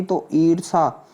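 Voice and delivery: ordinary delivery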